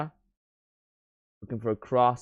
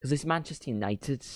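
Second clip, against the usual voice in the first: put-on Gary Neville accent; 4 semitones higher, 3 dB quieter than usual. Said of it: "doing the Gary Neville accent".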